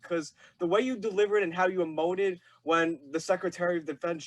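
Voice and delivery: ordinary delivery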